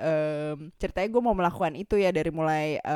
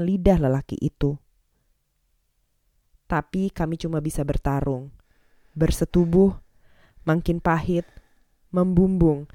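hammy stage actor. Acted. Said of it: "Kak Dara mau berdeklamasi".

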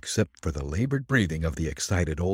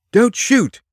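high, loud warning shout; sharply raised, urgent cry; urgent exclamation; 9 dB louder than usual. A narrator's reading. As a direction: call out to stop a gunshot. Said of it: "exclaimed Nick".

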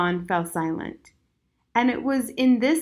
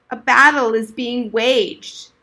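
put-on old soldier; 2 semitones higher, 6 dB louder, slower than usual.

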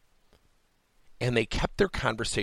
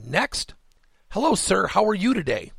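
lightly acted eager-to-please service voice; polite customer greeting; 8 semitones higher, 4 dB louder than usual. Clerk greeting the next customer, lightly acted courtesy. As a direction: imitate a clerk's lifted, higher greeting.

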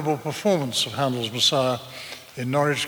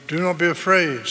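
angel reassuring; 4 semitones higher, 4 dB louder than usual. Retold or imitated. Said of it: "The angel tried to reassure him".

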